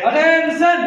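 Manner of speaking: loud, high parade command; drill sergeant. Real, not acted. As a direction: bark the order at the ranks. Calls class to attention. (Drill সার্জেন্টের হুকুম)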